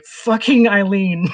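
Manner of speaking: slow, laughing through the host's line; laughing quote. Retold or imitated. Telling a friend about the radio host, laughing. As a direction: crack up while quoting him. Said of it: "he's like".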